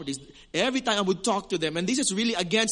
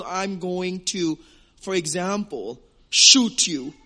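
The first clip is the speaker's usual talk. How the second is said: louder mock threat of shooting; mock angry threat; 2 semitones lower, 6 dB louder, slower than usual. Preacher contrasting angry threat with the Cebuano tone, mock loud. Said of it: "even though we're angry".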